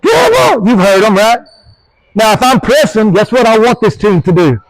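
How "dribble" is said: high pitched yell from the stands; imitating a grandma yelling from the bleachers. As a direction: holler it like an excited grandma. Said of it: "Everybody's yelling".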